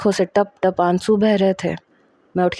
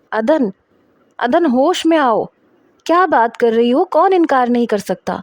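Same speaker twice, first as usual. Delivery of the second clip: urgent shout; 5 semitones higher than usual. Acted. Brother shaking hysterical sister.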